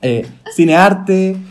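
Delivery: slow, after a gulp of beer; after a beer sip. Real, not acted. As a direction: say it again after swallowing. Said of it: "Perdón, estoy tomando cerveza".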